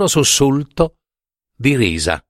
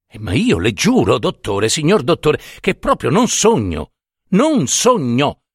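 insistent, rising irritation; peevish protest; 3 semitones higher than usual. Acted. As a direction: protest it, getting higher and more worked up. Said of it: "esclamò stizzito".

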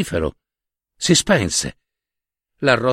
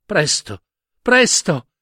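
put-on presto, presto pleaded higher by a little girl, the second presto rising high; urgent child's plea; 3 semitones higher, slower than usual. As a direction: hurry her grandma with a begging presto, presto. Girl begs grandmother, urgently.

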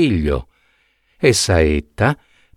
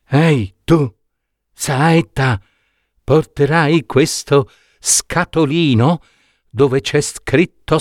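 a hint of a sly old dwarf, slightly higher; lightly voiced old dwarf; 4 semitones higher than usual. Old dwarf offering Saetta gold coins, lightly voiced sly tone. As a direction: bargain with him like a crafty little old man.

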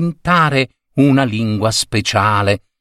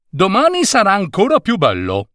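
put-on child's voice; 9 semitones higher, faster than usual. Old man voices child.

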